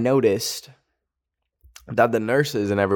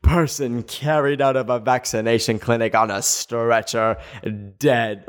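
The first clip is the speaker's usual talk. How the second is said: mock news anchor. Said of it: "They're gonna be like".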